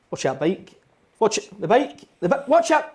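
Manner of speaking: rising to a high panicked yell; urgent warning shout. Retold or imitated. Shouting at a friend to watch the bike.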